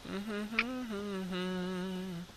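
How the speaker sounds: soft, high little hum; idle humming. Real, not acted. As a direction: hum absently to yourself. Idle humming while playing.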